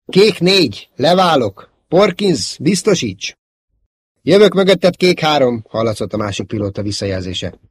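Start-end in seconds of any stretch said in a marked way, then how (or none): 0.0-5.6 high, loud combat calls; urgent radio call. Acted. Pilots coordinating a dive attack, urgent. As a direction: call out the attack to your wingman.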